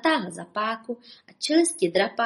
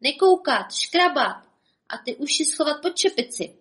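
higher, loud barked orders; bawling cook; 8 semitones higher, 3 dB louder than usual. Acted. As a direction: bellow at the kitchen hands. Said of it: "hulákal".

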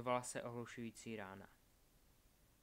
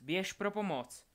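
raised, high urgent shout; yelling at him; 7 semitones higher, 7 dB louder than usual. A narrator's reading. Albus sends Craig running for help, urgent yell. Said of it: "zařval na něj Albus".

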